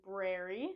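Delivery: brary said BRAIR-ee; both R's pronounced. Shown as a demonstration. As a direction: say brary with an R after the B. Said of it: "pronouncing both R's".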